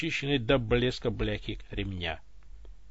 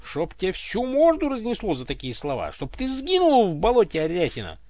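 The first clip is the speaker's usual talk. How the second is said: furious cursing; 7 semitones higher, 6 dB louder than usual. Acted. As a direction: curse him with rising fury. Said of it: "голос всё больше распалялся". (разгневанный голос проклинает Ивана)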